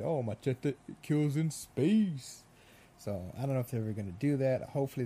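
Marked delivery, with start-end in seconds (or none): 0.0-2.4 mock trailer voice. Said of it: "then they said".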